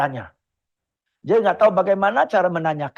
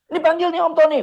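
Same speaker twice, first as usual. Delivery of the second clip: higher, insistent push to say hello; nudging a stubborn kid in front of a guest; pushy parent; 11 semitones higher, 4 dB louder, much faster than usual. Acted. Elternteil drängt Kind.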